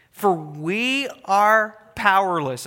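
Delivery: slow, heavy on powerless; understated plea of weakness; a touch of pleading. Acted. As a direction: lean into the confession. Reading the people's prayer.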